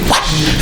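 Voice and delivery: quick whoosh of a shot; imitated whoosh. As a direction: mimic the ball flying with a whoosh. Imitating a basketball shot release.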